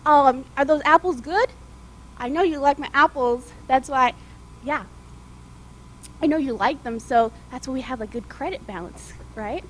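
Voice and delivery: loud, cheerful stall owner greeting; hearty shopkeeper. Acted. Apple stand owner greets the coach, loud and cheerful. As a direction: boom a friendly hello across the stand. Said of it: "he came out and he said".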